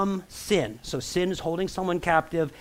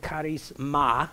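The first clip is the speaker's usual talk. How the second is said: Latin accent; slower than usual. Shown as a demonstration. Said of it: "You gotta say it with your Latin accent".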